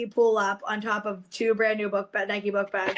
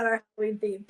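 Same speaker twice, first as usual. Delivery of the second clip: ordinary delivery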